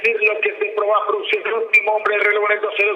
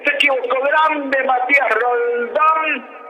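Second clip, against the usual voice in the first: excited shout; 5 semitones higher than usual. Real, not acted. Commentator reacts to an error.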